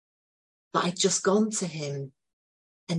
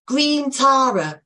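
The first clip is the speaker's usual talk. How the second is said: slow eager answer; 7 semitones higher, 6 dB louder, much slower than usual. Retold or imitated. Boy answers.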